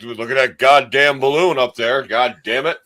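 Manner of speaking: lightly voiced cussing old man; old-timey old man. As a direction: imitate an old man grousing, a bit loud. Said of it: "that's how these old men sounded".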